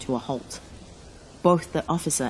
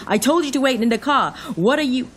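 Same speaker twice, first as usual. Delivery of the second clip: raised, high, loud reprimand; scolding shout; 9 semitones higher, 6 dB louder than usual. Acted. Officer grabs the driver and scolds, shouting. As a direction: shout at someone who disobeyed you.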